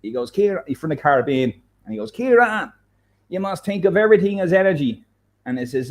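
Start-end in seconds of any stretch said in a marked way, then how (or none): 0.3-5.0 a light, badly done Caribbean accent, higher pitched; terrible Caribbean accent. Teacher advising student, in a weak Caribbean accent. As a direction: mimic a Caribbean teacher's voice, half-hearted. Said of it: "That was a terrible accent".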